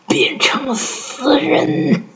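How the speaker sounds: high, slow, eerie ghost voice; ghostly whisper. Acted. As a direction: drag it out like a phantom. Evil doctor's final reveal. (阴森鬼魅的嗓音)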